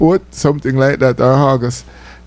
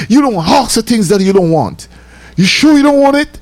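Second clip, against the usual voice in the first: a lightly voiced English girl, higher and insistent; girl's voice; 8 semitones higher than usual. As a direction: press him like a puzzled shopgirl. Girl voiced pressing him.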